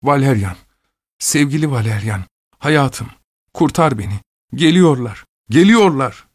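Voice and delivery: high, rising, terrified plea; shrill delirious cry. A narrator's reading. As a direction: cry for rescue, building to a scream. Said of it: "ansızın acıklı, tiz bir sesle".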